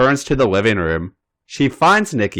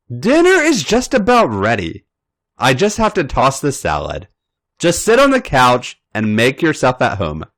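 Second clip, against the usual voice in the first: friendly host calling from the kitchen; Natalia's voice; 3 semitones higher than usual. Acted. Natalia inviting Nikki in, lightly voiced and friendly.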